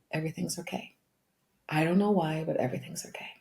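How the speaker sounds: soft and calm, sinking to a whisper at the end; calm reassurance. Retold or imitated. Mother calming her crying daughter, soft and reassuring. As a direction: settle her gently, almost whispering. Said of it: "calm energy that came over me".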